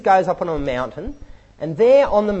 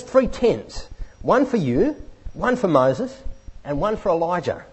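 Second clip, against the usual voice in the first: Peter blurting; 4 semitones higher, 4 dB louder than usual. Retold or imitated. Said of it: "he comes out with this".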